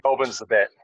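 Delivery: relaying the stranger in a lazy Aussie drawl; a hint of laid-back bloke; laconic outback drawl. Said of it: "The guy knows his shit".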